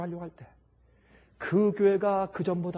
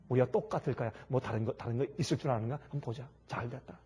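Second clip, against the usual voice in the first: sly muttered gloat; 6 semitones lower, 6 dB quieter than usual. Retold or imitated. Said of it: "마음속에 이렇게 생각했습니다".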